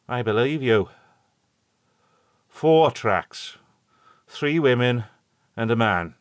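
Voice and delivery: put-on a hearty old countryman calling out; old rustic shepherd. A narrator's reading.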